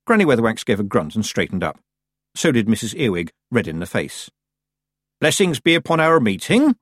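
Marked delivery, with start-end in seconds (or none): 5.2-6.8 formal, high-pitched polite greeting; deliberately calm. A narrator's reading. Granny greets her rival witch, deliberately calm. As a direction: greet a rival with careful civility. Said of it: "in a calm voice".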